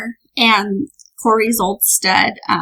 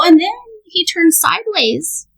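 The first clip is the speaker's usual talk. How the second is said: laughing; 6 semitones higher, slower than usual. Retold or imitated. Kids' excited claim, laughing.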